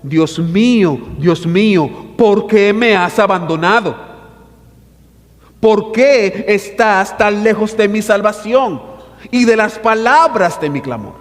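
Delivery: a preacher voicing David's cry; anguished reading. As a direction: read the cry of the psalm with anguish. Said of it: "Vaya conmigo al verso uno".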